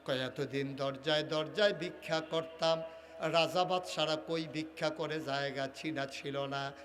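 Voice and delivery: low, lilting chant as the grateful beggar; subdued sing-song preaching; melodic sermon storytelling. Acted. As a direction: intone it low, drawing out the last word.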